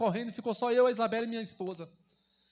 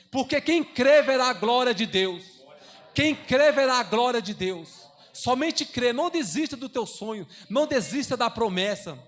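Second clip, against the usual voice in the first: fervent sermon cadence, louder on each build; preaching; 3 dB louder than usual. Acted. Pastor urging the church to believe, fervent preaching. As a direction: preach it with rising conviction.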